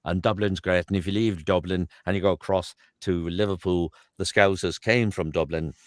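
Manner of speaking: southern Irish accent from Dublin. Shown as a demonstration. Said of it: "And then I go to Dublin".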